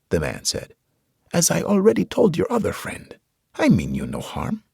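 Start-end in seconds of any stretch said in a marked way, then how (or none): 1.3-4.7 put-on gentle preacher, higher, with a Hispanic accent. A narrator's reading. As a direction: soothe the soldier, Hispanic accent. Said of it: "He had a Hispanic accent".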